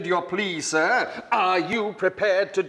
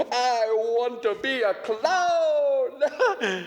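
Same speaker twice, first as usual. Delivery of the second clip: slow and high, laughing through it; giddy longing; 6 semitones higher, much slower than usual. Acted. Bored tragic character longing for the circus, laughing giddily. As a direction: savour the dream with a giggle.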